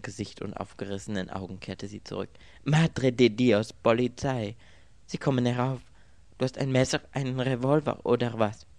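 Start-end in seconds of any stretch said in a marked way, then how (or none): 2.6-8.7 raised, loud voice of sudden alarm. A narrator's reading. Girl warns Anthony the police are coming up, alarmed. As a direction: cry out higher and louder in panic.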